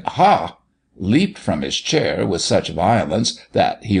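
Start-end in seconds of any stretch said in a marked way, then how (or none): 0.0-0.6 sudden high "Ha!"; startling exclamation. A narrator's reading. Doctor breaking the deepest silence, startling exclamation. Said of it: "the doctor uttered a startling".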